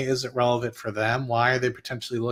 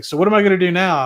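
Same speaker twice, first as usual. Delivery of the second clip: anxious client; 6 semitones higher, 7 dB louder, faster than usual. Retold or imitated. Retelling a client's panicked question.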